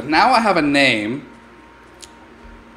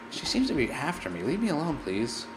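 scared; 11 dB quieter than usual. Real, not acted. Woman with axes approaching.

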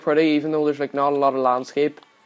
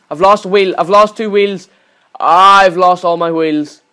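rising exasperated shout; 2 semitones higher, 7 dB louder than usual. Real, not acted. Wheels falling off in game.

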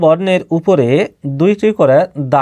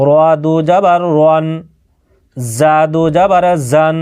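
measured, level-pitched letter-by-letter chant; spelling drill recitation. Shown as a demonstration. Teacher showing learners how to read double zabar, in a drill chant. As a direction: recite each spelling on one steady note, pausing between items. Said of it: "দেখেন কিভাবে আপনি পড়বেন".

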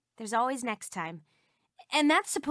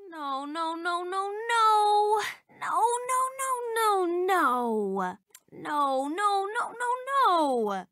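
dismayed no; 5 semitones higher, slower than usual. Acted. Game character losing.

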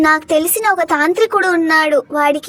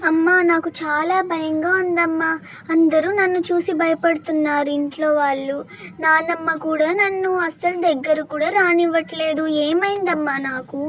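put-on softer, a scared child pleading quietly; sad, fearful; 4 dB quieter than usual. Girl tells her mother everyone fears her, soft and sad. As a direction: tell mother your fear in a small hurt voice.

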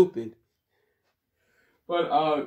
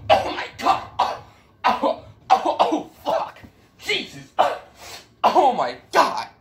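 helpless laughter; 9 semitones higher than usual. Real, not acted. Breaks down over his team.

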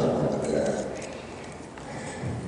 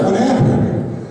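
much higher, slow puzzled ask; surprised teammates; 3 dB louder, much slower than usual. Retold or imitated. Teammates asking the quarterback back at the huddle, slow high surprise. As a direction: stretch it out like confused teammates. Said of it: "the guys were like".

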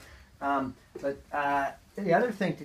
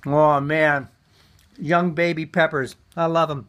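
delighted; 6 dB louder than usual. Real, not acted. Tasting fresh peppers, delighted.

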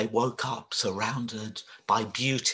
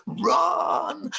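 high, loud panicked cry; shouting; 14 semitones higher, 4 dB louder than usual. Acted. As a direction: yell at the friends to flee. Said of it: "they shouted".

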